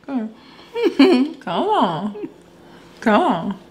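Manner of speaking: speaking with lips apart; lips not touching. Real, not acted. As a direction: talk around fake teeth, lips open. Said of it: "You not putting your lips closed".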